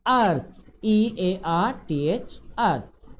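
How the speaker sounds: "अर्थ" ending in th, spelled E A R T H slowly; pronunciation drill. Shown as a demonstration. Teacher modelling "अर्थ" for pupils, slow and clear. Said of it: "यहाँ पे pronounce करना सीखना है".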